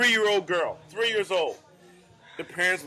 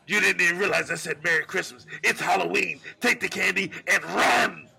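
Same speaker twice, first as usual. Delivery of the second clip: mock-menacing build to a drawn last word; lightly voiced monster giving orders; scary command. Hidden host sending startled teenagers running, mock menace.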